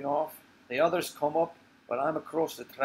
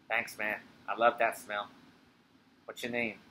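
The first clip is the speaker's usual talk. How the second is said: low man's voice; 3 semitones lower, 3 dB quieter than usual. Acted. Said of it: "she becomes Ray".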